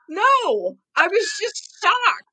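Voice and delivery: mock sheepish coworker, slow; a hint of a dazed man admitting he froze; sheepish high voice.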